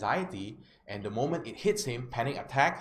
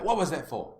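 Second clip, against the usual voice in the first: mildly raised, indignant retort; mock angry; 4 semitones higher than usual. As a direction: act out an annoyed man startled out of it. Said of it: "he was angry".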